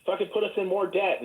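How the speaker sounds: lightly voiced AI parroting anti-Trump complaints; mock chatbot rant. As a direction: reel off complaints as the pandering bot. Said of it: "And it'd be like".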